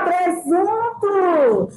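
drawn-out presunto, very slow; stretched out. Shown as a demonstration. Professora alonga a palavra. ("presunto" bem arrastado)

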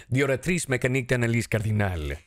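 French name in a put-on Spanish accent; butchered French with Spanish-accented vowels and consonants. Shown as a demonstration. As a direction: say the French title as a Spanish speaker would. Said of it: "doing it with a Spanish accent".

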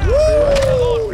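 high, excited whoop. Real, not acted. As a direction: whoop at a win. Reacting to a kill. (grito de emoción)

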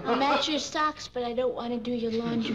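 giggling through the words; words breaking into laughter; laughing while talking. Real, not acted. Laughing through her complaint.

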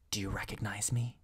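hushed, secretive question; whispered. A narrator's reading. Messenger furtively questions B at her door, whispered. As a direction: ask it under your breath, softly. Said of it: "he whispered".

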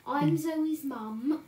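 slow, loud mock introduction; drawn-out, hammed-up mum voice; imitating mother. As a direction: announce yourself like a mum gatecrashing a stream. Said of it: "She'll be wanting to come in and go".

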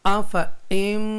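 आफा इम्माता with a long held nasal m; recitation demo. Shown as a demonstration. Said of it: "चलें आइए सीखते हैं".

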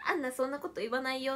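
ordinary talk, nothing marked

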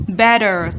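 "Better" with T tapped as D; middle T. Shown as a demonstration. Teacher showing middle T to students, tapped T. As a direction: soften the T in "Better" to a quick D. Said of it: "T trung âm".

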